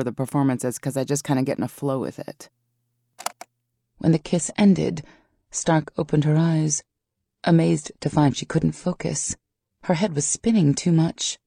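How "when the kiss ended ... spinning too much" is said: slow, measured story narration; audiobook narration. A narrator's reading. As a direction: read the passage aloud with deliberate pauses. Narrator reads passage from audiobook.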